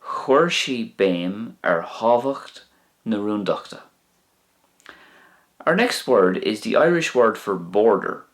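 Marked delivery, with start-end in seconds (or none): 0.0-3.8 "Chuir sí béim ar thábhacht" whispered, slow; whispered slow repeat. Shown as a demonstration. Teacher repeating the Irish sentence again in a slow whisper. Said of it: "She put emphasis on the importance".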